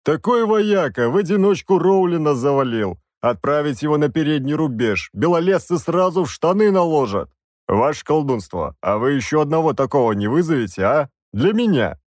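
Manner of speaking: hearty soldier boasting to the mage; бравый воевода. Acted. Голос воеводы. (бравый голос воеводы)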